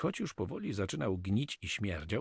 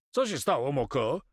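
higher-pitched, urgent question; alarmed question; 6 semitones higher, 3 dB louder than usual. A narrator's reading. Carmo asks the frightened Moko what happened, alarmed. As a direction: ask with sudden concern.

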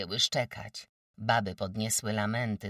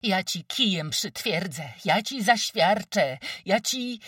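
high, loud furious threats; furious yapping; 10 semitones higher, 9 dB louder than usual. Acted. Wójt's wife charging with a stick, furious shouted threats. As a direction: bark threats with a stick raised. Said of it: "jazgotała zajadle".

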